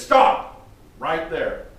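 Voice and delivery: as God halting Moses at the bush, a sharp shouted stop; God's shouted command. Acted. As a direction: yell it to stop someone in their tracks. God halts Moses, retold.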